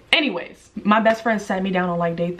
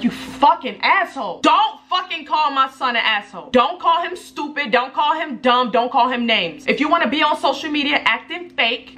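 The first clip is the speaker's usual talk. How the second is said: raised pitch, heated scolding; replaying the fight, heated and higher; mock angry scolding; 6 semitones higher than usual. Retelling a fight with the ex.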